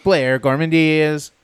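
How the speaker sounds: hyped YouTuber greeting; bright vlogger hello; YouTuber intro voice. Pretend.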